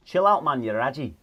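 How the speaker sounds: raji said RAH-jee in a bad northern accent with a Scottish twang; terrible Sunderland attempt. Host copies the example line in a bad accent with a Scottish twang. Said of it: "That was terrible, wasn't it?".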